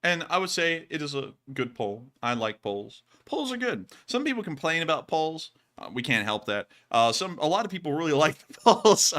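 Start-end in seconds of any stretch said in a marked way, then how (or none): 2.2-6.7 understated, matter-of-fact delivery; deadpan. Real, not acted. Streamer answering about liking the Poles, deadpan. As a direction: say it straight, with no reaction. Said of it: "I just said that so deadpan".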